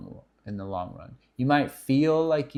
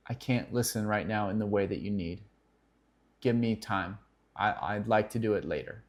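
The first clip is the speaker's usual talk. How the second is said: soft, calm and sincere, a little quieter; gentle refusal; 4 semitones lower, 4 dB quieter than usual. Shown as a demonstration. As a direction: gently set a boundary with your wife. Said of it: "That's a huge line".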